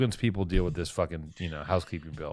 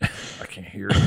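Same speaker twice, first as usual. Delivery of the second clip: mock Texas twang; Texas accent; slower than usual. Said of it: "Let me try my Texas accent".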